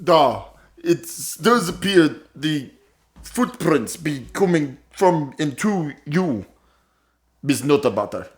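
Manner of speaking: low, slow lawman drawing out his accusation; gruff detective voice. Acted.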